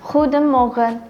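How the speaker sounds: "Goedemorgen" with a throaty G and rounded oe; Dutch greeting. Shown as a demonstration. Presenter teaching a Dutch morning greeting, careful Dutch pronunciation.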